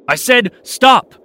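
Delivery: slow, high, loud command; angry shout. A narrator's reading. Officer shouting after fleeing boy, angry shout. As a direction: bellow it down the passage.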